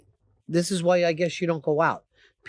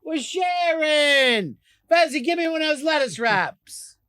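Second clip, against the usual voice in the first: high, hammed-up table call; mock diner chatter; 7 semitones higher, slower than usual. Host mimics diners sharing food, high exaggerated calling. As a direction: call out high, stretching the words. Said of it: "so everybody can go like".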